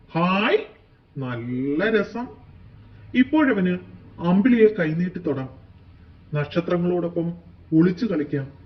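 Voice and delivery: gleeful, loud exclamations; delighted. Acted. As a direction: savour the thrill of flying free. Kite delights in flying free.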